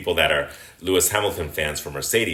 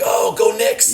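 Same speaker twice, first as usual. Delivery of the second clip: squealing high cheer, much higher and louder; hammed-up falsetto fan cheer; mock fan cheer; 7 dB louder, slower than usual. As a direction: cheer like a bandwagon fan in the stands. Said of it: "they're like".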